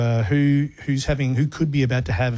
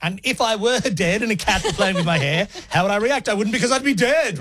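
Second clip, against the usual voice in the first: lightly voiced earnest actor, rising higher; imagined committed actor; 4 semitones higher than usual. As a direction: build to a mock-earnest justification. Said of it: "and he goes".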